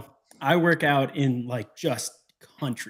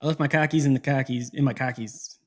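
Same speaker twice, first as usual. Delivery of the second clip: Boston accent imitation. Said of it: "you know, the Boston things".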